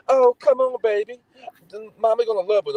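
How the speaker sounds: put-on high, cooing mother babying her son; coddling mom voice. Mocking a mother who coos at her misbehaving son. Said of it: "as soon as your son do something".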